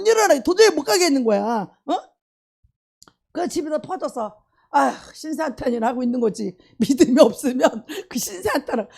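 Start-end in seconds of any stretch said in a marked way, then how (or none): none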